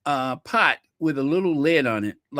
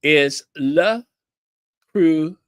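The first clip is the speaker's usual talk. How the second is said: quizzing tone; 5 dB louder than usual. Shown as a demonstration. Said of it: "how do you pronounce Le Creuset?".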